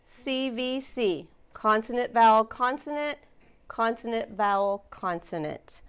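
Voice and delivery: "C V C" said slowly, letter by letter; slow spelled pattern. Shown as a demonstration. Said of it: "spelling out the pattern".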